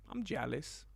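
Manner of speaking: hushed whisper; whispered envy. Real, not acted. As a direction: say it under your breath. Whispered reaction to a comment.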